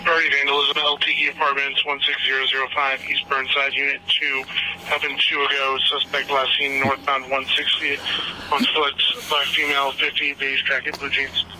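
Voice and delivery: police radio. Real, not acted. Dispatcher reading call over radio.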